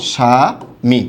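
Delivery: স্বামী said as shami, no b sound; স্বামী pronounced shami; correct pronunciation. Shown as a demonstration. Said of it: "এইটারও সঠিক উচ্চারণ কি হবে".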